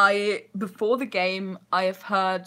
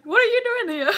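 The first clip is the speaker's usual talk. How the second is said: goblin voice; 5 dB louder, much faster than usual. Retold or imitated. Goblins confronting speaker, retold.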